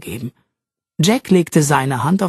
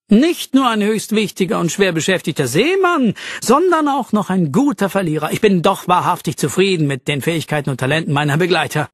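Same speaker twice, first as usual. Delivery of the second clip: pompous noble; 3 semitones higher than usual. Acted. Pompous Fitzwilliam praises himself.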